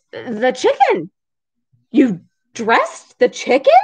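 a touch of hushed, halting shock; mild disbelief. Acted. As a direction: ask it as if barely believing it. Shocked employer questions maid.

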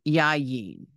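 yayin again as yah-yeen, ending falling; Hebrew word repeated. Shown as a demonstration. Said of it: "It has a double yud".

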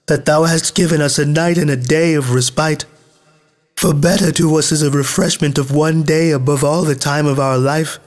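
high-pitched collective thanksgiving; crying out. A narrator's reading. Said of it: "they all cried out and said".

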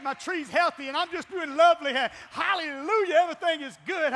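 chuckling, sarcastic hallelujah; laughing mock cheer. Pastor mocking churchgoers faking fine, laughing. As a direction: laugh at the pretense that all is good.

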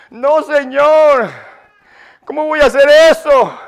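protesting climber. Retold or imitated. Climber objecting to the Lord's order, mock protest. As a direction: plead back in mock reluctance.

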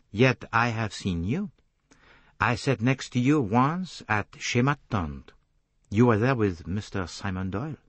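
measured reminder from the detective; Poirot, deliberate. Acted. Detective recalls seeing her in a restaurant, deliberate accented voice.

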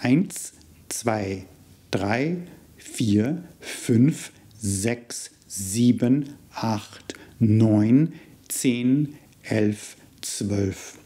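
each number counted out slowly and clearly in German; teacher counting one to twelve in German; German numbers modeled. Shown as a demonstration. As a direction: model the counting words for learners to repeat. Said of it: "let's start with the numbers up to twelve".

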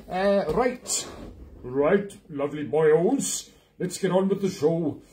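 put-on Welsh sergeant major starting the show; mock Welsh, drawn out on the catchphrase; terrible Welsh accent. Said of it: "this terrible Welsh accent".

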